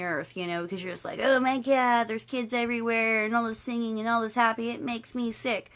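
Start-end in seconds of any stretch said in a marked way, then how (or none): 1.2-5.7 mild mock disgust, slowing at the end; miserable complainer. Miserable visitor grumbling at Disneyland, mock disgusted whine. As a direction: grumble it like a theatrical killjoy. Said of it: "be the most miserable person on the".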